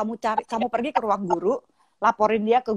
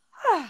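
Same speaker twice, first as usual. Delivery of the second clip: retold exhale of relief, pitched up; relieved sigh; 8 semitones higher than usual. Daughter hears mother's advice, imitated relieved sigh. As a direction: let out an acted sigh of relief.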